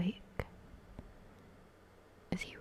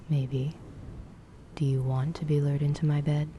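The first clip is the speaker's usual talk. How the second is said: lower, smug whispered male voice; cocky Damon voice; 3 semitones lower, 3 dB louder than usual. Acted. Damon teasing.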